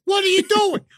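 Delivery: high-pitched alarmed questions; hammed-up alarm without extra volume; mock panic. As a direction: act the panicked passenger, pitch jumping up. Acting panicked passenger questioning driver.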